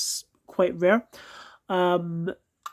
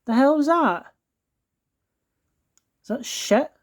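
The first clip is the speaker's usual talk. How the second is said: high, sharp shocked disgust at the gunk; 6 semitones higher, 4 dB louder than usual. Real, not acted. Collector finds gunk under his toy, shocked disgust. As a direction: recoil at something gross.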